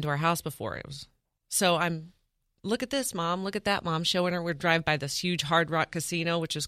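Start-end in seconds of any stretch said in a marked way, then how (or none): 2.6-4.0 excited. Retold or imitated. Showing mom sights from car.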